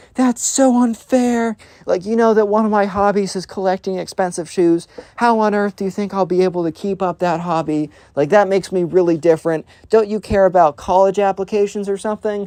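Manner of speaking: mock young teen voice, high-pitched, ranting on and on. Retelling a thirteen-year-old's complaint after being cut off from a credit card: mock ranting. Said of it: "ranting on".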